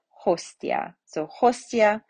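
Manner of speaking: "Hostia" with a plain T, no ts; hard T before I. Shown as a demonstration. Teacher showing the exception after S, "Hostia" with hard T. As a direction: sound "Hostia" as host-ee-ah. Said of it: "we have the T and the I separate".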